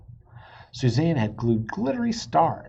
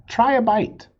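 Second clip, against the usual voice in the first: higher, louder sign slogan; bright sign read; 10 semitones higher, 7 dB louder than usual. A narrator's reading. Narrator reading the sign's slogan out loud. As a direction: sell it like an ad.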